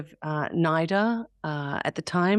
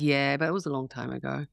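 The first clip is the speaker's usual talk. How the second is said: lower, understated brush-off; playing it down; 4 semitones lower, 3 dB quieter than usual. Mother answering her impressed kids, playing it down. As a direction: modestly shrug off the praise. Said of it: "play it down".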